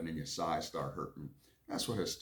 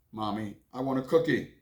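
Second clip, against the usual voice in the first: put-on whiny kid; 4 semitones higher, 6 dB louder than usual. Child Billy begs mom.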